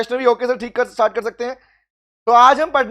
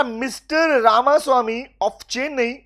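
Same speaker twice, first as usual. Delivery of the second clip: slow question reading; much slower than usual. Shown as a demonstration. Teacher reads exam question aloud.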